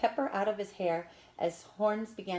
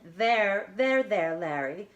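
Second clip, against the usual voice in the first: comforting; 5 dB louder, slower than usual. A narrator's reading. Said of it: "comforted him".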